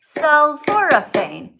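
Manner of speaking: Sulforaphane said very slowly and loudly, every syllable clear; slow careful pronunciation. Shown as a demonstration. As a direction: stretch out Sulforaphane, four full syllables. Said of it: "Say it with me five times".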